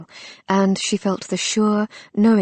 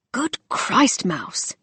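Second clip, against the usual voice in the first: breathy amazed exclamation, pitch leaping high; breathed; 5 semitones higher, much slower than usual. Acted. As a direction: breathe it out in wonder. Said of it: "he breathed".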